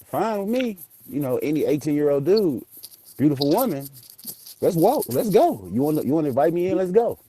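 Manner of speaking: eager, high and pushy; excited. Retold or imitated. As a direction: hype yourself up to go in. Eager to go inside with woman.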